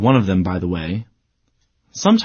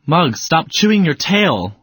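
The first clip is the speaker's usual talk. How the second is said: higher, slower, raised order to the dog; exclaiming; 5 semitones higher than usual. Shown as a demonstration. Owner telling the dog Muggs to stop chewing its tail, raised voice. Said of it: "Exclamation point".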